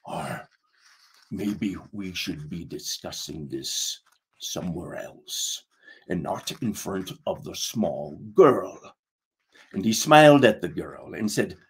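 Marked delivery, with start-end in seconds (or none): 0.1-8.8 low, soft confidential murmur; hushed pirate aside. Acted. First mate steering the captain away from the girl's ears, hushed. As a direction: keep your voice down, much lower and softer. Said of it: "Rotten Pete whispered".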